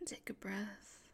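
barely audible whispered repeat. Acted. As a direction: fade the command almost to nothing. Repeats coaching even softer.

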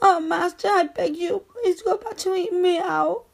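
submissive, pleading appeal; begging. Acted. Servant begging master to continue, pleading. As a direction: beg with rising pleas. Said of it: "I'm begging you".

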